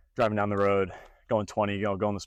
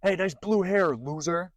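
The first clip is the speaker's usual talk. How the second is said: mocking taunt; 7 semitones higher, slower than usual. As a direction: taunt like a passing heckler. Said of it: "some guy comes over and he goes".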